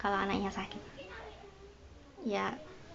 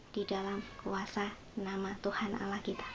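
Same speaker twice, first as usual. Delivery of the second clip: whisper; 10 dB quieter than usual. Real, not acted. Preacher drops to whisper. (bisikan khidmat dan pelan)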